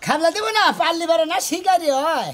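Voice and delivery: protesting. Acted. Son argues back in a tantrum.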